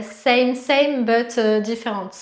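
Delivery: imitating a teacher's English accent, lightly. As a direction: say it like an English-speaking yoga teacher. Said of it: "avec mon bel accent anglais". (accent anglais imité, léger)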